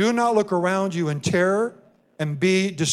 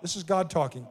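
dropped to a soft aside; quiet aside; 7 dB quieter than usual. Real, not acted. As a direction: slip it in under the breath. Quiet aside between repeated quotes.

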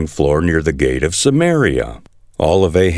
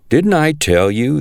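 raised, vindicated exclamation; king exclaims to Jehoshaphat, vindicated and raised; exclaiming; 9 semitones higher than usual. Acted. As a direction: blurt it out, told-you-so. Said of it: "exclaimed to Jehoshaphat".

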